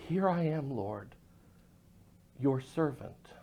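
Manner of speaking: hushed reverence. Acted. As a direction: answer God in a hush. Samuel answers God softly.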